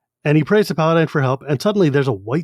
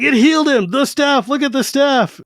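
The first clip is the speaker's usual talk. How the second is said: amazed outburst; 10 semitones higher than usual. Retold or imitated. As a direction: cry it out in awe. Old man amazed at miracle.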